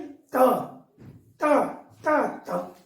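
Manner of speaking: त said alone with pauses, tongue against the top teeth; tongue-to-teeth demo. Shown as a demonstration. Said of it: "माने जीभ का जो आगे वाला भाग है".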